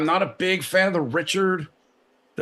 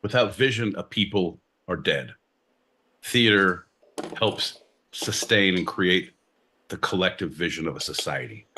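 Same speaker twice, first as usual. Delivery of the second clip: grand proclamation; 8 semitones lower than usual. Acted. Dramatic proclamation on theater.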